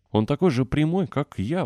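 high, eager exclamation; excited exclaim. A narrator's reading. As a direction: burst out proudly. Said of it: "воскликнул Дик".

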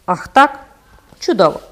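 enraged captain hissing back at the phantom; furious. Acted. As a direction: spit it out, choking with fury. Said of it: "процідив він, задихаючись од люті".

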